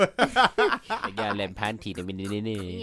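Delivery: put-on slow, drawn-out Jamaican accent. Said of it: "say that in the Jamaican accent".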